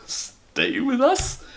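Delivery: high, slow, nervous echo of "Stay with us?"; a worried husband caught off guard. Acted. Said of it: "repeated Mister Brown nervously".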